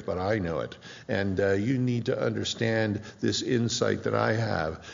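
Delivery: patronize the naive believers with fake praise; lightly voiced smug false teacher. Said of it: "False teachers are always this".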